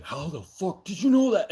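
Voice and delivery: high, loud mock astonishment; imitating stunned kid. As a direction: voice the child's shocked look. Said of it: "she just looked at me like".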